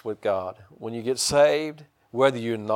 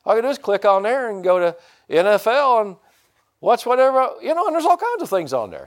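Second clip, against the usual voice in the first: gleeful excitement; 9 semitones higher, 4 dB louder than usual. Retold or imitated. Thrilled listing what he gets.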